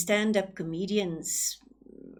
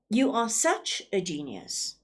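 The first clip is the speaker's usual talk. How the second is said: sarcastic compliment. Shown as a demonstration. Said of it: "Did you see that?".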